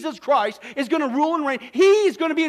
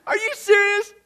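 higher, laughing through the words in disbelief; God laughing in disbelief; 7 semitones higher than usual. Acted. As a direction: crack up at the very idea. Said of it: "He's laughing".

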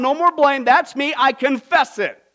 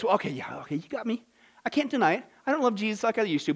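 mock excuse-maker; 6 dB quieter, faster than usual. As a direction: own up grudgingly, under your breath. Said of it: "we say stuff like this".

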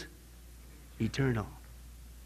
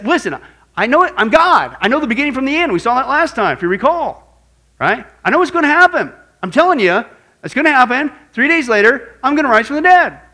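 raised, insistent declaration; Jesus pressing his point, louder; emphatic Jesus quote; 5 semitones higher, 4 dB louder than usual. Acted. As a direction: proclaim it with rising force.

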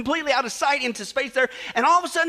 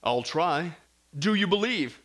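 lightly voiced calm heavenly voice; voice from above; 5 semitones lower, slower than usual. Heaven tests the dangling tourist, calm. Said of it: "the voice from above goes".

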